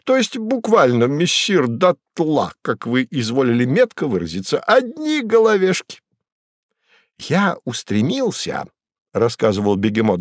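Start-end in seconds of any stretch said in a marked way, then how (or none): 0.0-6.0 much higher, reedy storyteller voice; Koroviev's voice. A narrator's reading. Koroviev's high voice. 7.2-8.6 higher, slow and grand; the cat Behemoth boasts to Woland of his exploits; Behemoth's voice. A narrator's reading. Behemoth telling.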